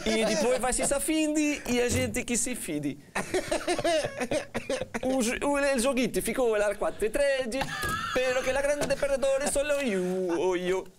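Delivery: hammed-up fake Italian; mock Italian accent. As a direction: cod Italian gibberish accent. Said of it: "o castigo é falar em sotaque italiano".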